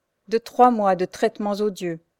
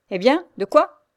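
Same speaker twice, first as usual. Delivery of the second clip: put-on loud, higher drunken street tough; drunken slum tough; 6 semitones higher, 6 dB louder than usual. Jacques challenges Pierre like a drunken thug. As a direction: bark it like a tipsy suburban thug. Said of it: "ton des faubouriens avinés".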